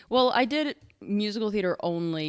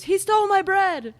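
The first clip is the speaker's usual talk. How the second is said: much higher, louder comic line; acted stage line; 7 dB louder than usual. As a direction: belt it like a school play extra. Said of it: "person who goes".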